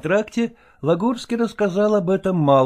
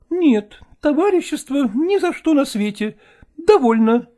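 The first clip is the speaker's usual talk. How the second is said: high, lamenting woman's voice; actress voice; 12 semitones higher, 4 dB louder than usual. A narrator's reading. Actress Malkova telling Chechentsev of the crash, lamenting high. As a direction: wail it like a put-upon actress.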